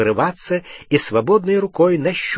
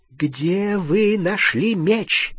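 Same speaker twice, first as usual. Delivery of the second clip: insistent questioning; 7 semitones higher, much slower than usual. A narrator's reading. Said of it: "повторила она".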